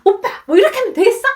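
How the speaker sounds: high, fast burst of annoyance; re-enacted exasperated nagging; irritated whining. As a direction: snap at your husband in a high, rushed voice. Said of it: "남편한테 막 짜증을 내고 있었습니다".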